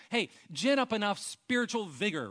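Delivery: a hint of a pushy coach; lightly voiced hearty rally cry; mock pep talk. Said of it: "well, Paul's saying".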